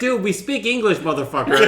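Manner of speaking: exasperated retort. Retold or imitated. Barista to would-be French speaker, mock exasperated retort.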